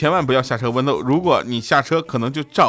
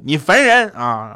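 slow, irritated complaint; annoyed; 3 semitones higher, 5 dB louder, slower than usual. Retold or imitated. Weaver Girl snapping at the Cowherd, slow and irritated. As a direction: drag it out, fed up. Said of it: "烦他就说".

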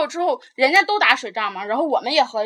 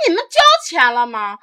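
sharp retold challenge; 6 dB louder than usual. Confronting seat takers on bus.

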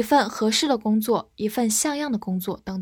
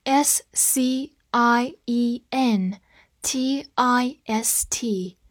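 whisper; much slower than usual. Shown as a demonstration. Spelling drill whispered.

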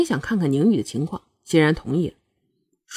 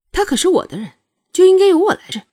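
higher, rising to a loud insistence; indignant; 9 semitones higher, 4 dB louder than usual. A narrator's reading. Shuangyue refusing to let the prince take over, indignant. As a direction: assert ownership, louder and higher by the end. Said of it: "有一口气咽不下去".

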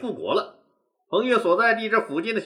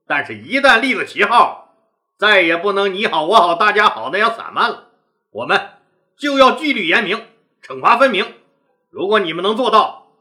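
firm, louder warning; 5 dB louder than usual. Acted. Leader laying down the rules.

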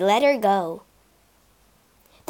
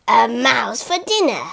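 snarling lion. Acted. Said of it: "he snarled and licked his lips".

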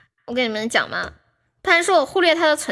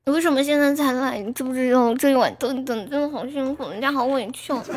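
soft sulky whine; 4 dB quieter than usual. Pretend. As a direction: sulk at the fan in a soft whine. Repeats coaxing softer, sulky.

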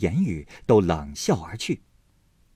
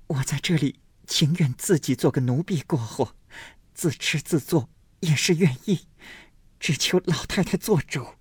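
put-on pleading girl; 7 semitones higher than usual. A narrator's reading. Daiyu pleading.

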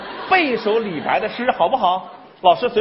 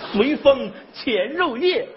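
poem recitation; slower than usual. Shown as a demonstration. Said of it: "老师跟你对诗".

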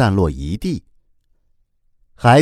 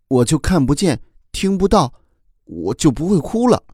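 put-on pleading child; 4 semitones higher than usual. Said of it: "哭哭又说".

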